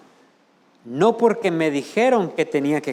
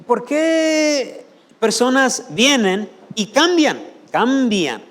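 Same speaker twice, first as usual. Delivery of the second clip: preaching shout; 8 semitones higher, 5 dB louder, slower than usual. Acted. Preacher's rising challenge.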